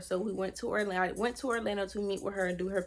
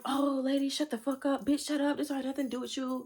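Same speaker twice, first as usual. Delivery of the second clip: raised-pitch, imitated snappy comeback; mock angry retort; 5 semitones higher than usual. Boyfriend telling off the lady, mock angry. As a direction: act out his rude dismissal, lightly heated. Retelling his rude comeback.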